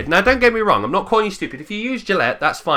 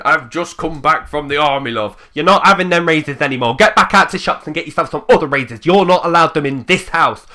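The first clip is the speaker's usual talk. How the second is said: louder, fast, bossy mock telling-off; fast loud mock scolding of wife; mock angry husband; 7 dB louder than usual. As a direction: bark it like a soldier home laying down the law. Husband back from army scolding.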